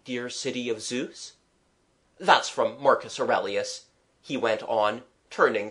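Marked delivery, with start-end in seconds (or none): 0.1-1.3 softer, musing recitation; softly to himself. Acted. Artist quoting a poet to himself, softly. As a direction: quote it quietly, as if alone. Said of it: "he said softly to himself".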